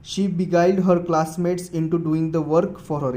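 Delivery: each word spelled out slowly; slow dictation. Shown as a demonstration. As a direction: read the example slowly for notes. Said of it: "जैसे sentence देखो".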